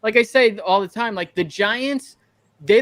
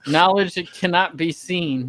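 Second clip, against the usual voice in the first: lower, slow, mock-profound proverb; slow deep-wisdom delivery, half joking; slow mock sage line; 4 semitones lower than usual. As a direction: intone it like a fake guru. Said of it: "You like that, huh?".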